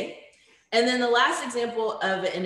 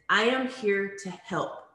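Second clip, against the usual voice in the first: calm reassurance; slower than usual. Shown as a demonstration. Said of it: "An example of a factual statement is".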